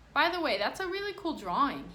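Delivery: put-on boy complimenting Brian's drawing; cheerful compliment. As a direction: praise it on the way out.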